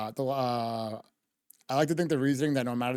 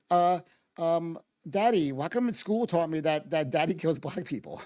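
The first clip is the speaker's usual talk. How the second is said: higher, lightly voiced small child asking; kid voice; 3 semitones higher than usual. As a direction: play a hesitant little kid asking his dad. Cop's child asking at home.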